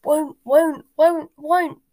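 high, loud elf tantrum; stubborn creature's repeated wail; croaking house elf. A narrator's reading. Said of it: "Creature's continued croaks of".

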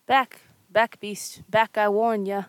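loud scared threat; shouted warning. Acted. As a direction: yell back at the beast. Villager threatening ogre.

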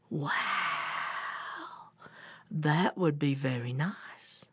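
gullible bear. Acted. Slow bear agrees.

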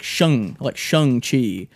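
Shang said "Shung", vowel as in "sung"; character's own pronunciation. Retold or imitated. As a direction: say Shang-Chi as SHUNG-chee. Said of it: "asked him what his name is".

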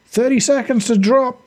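high-pitched pilot's call; calling back. Acted. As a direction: call the countdown back to the squad. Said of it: "the pilot suddenly called back".

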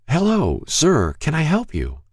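put-on high, frail old man voice; Mister Hall's frail voice. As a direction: speak like a frail elderly shopkeeper. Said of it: "a frail voice said".

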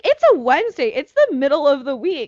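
high-pitched rushed worry about the week; frantic high pleading. Retold or imitated. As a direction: plead like the semester depends on it. Frantic list of semester worries.

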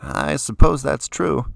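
talking through a mouthful of food; chewing while saying it; mouth full. A narrator's reading. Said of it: "around a large mouthful of food".

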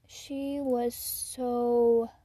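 whispered then squealed high and loud; gushing. Real, not acted. Gushing about a sassy little girl, whisper to squeal.

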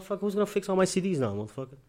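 mock fury at the cops; retold angry rant. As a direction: rattle it off like a pissed-off rant. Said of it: "I'm fucking pissed as fuck".

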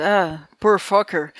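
slow, understated dismissive quote; mildly disdainful. Retold or imitated. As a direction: toss it off slowly, lightly imitating contempt. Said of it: "despreza aquele, aquele objeto".

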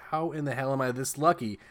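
imitating an awestruck boy, rising to a drawn-out peak; amazed kid. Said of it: "he's like".

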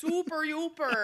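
high loud chirpy Midwest clerk; bubbly cashier, hammed up; customer service voice. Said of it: "my customer service voice gets so".

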